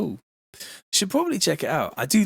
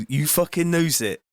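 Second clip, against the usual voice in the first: lilting West Country drifting into Welsh; Welsh-sounding West Country; 3 semitones higher than usual. Shown as a demonstration. Streamer retrying the phrase, accent sliding towards Welsh. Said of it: "that's more like Welsh".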